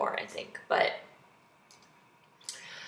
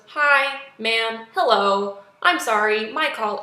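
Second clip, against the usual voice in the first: lightly imitated movie-hero greeting, louder; a hint of an actor's drawn-out, loud hello; Johnny Knoxville; 6 dB louder, slower than usual. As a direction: put it on a little, louder and raised. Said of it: "it was just so Knoxville".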